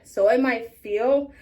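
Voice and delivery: talking through hiccups. Real, not acted. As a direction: hiccup interrupting the words. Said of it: "I have the hiccups".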